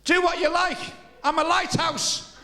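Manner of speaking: high, loud, slow unbothered reply; deadpan punchline. Acted. Lighthouse keeper answering the Bismarck captain, loud and unbothered. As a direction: land the punchline loud and calm.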